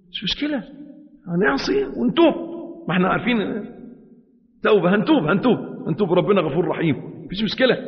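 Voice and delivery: tempting inner voice. Acted. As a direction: sweet-talk him into sin. The soul tempting him.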